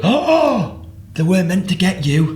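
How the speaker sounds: high, startled apology; mock shocked apology. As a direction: gasp it out, horrified at the mistake. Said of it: "she looks and goes".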